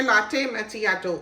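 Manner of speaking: "लाटे मैचियाटो" said the speaker's own Urdu-accented way; own pronunciation. Real, not acted. Vlogger naming the favourite coffee, own pronunciation of "लाटे मैचियाटो". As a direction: say "लाटे मैचियाटो" as it is called at home, firmly. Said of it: "इसका pronunciation जो है वो कोई और हो, लेकिन हम इसको यूं ही बुलाते हैं".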